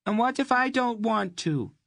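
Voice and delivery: Mady defying the red-haired bully; defiant girl. Acted. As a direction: toss back a challenge, cheeky. Girl defies the redhead.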